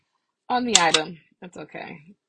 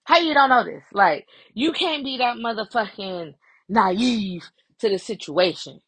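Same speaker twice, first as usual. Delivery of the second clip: imitated exasperated disbelief; mildly heated, incredulous retelling; mad. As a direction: retell a friend's annoyed challenge. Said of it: "but she mad because she like".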